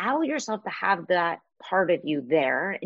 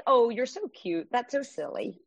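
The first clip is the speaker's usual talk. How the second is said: indulgent cooing; 3 semitones higher than usual. Acted. Woman humoring her own thoughts, indulgent cooing. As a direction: coo at it like a silly little thing.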